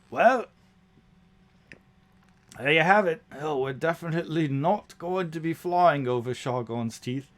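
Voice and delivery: high, loud goblin conceding bad news; resigned goblin. Goblin Tyler tells the crew about the storm, high and resigned. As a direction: goblin sighing out the obvious.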